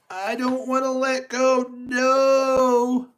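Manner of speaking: cling on and refuse in fear; frightened Tigger. Acted. Tigger clinging for dear life.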